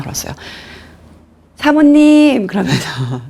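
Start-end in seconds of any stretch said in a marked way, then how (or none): 1.5-2.5 high, louder sweet call, drawn out; 예쁘게 말하기. Retold or imitated. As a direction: imitate a politely sweet phone greeting. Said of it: "난 진짜 예쁘게 얘기했는데". (상냥하고 예쁘게 부르는 목소리)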